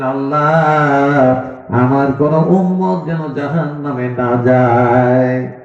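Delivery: slow, drawn-out imploring prayer; understated tearful plea. Retold or imitated. Preacher voicing the Prophet praying in prostration, mildly tearful plea. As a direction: plead slowly, stretching the last word. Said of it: "সেজদায় পড়ে কাঁদবেন আর বলবেন".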